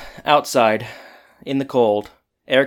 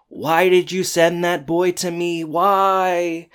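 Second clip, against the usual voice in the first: desperate plea; 5 semitones higher, slower than usual. Retold or imitated. Eric prays, devastated.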